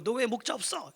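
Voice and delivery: high-pitched telling-off; mock scolding. Scolding a sheep without a shepherd, acted reproach. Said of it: "이렇게 야단칠 수 있어요".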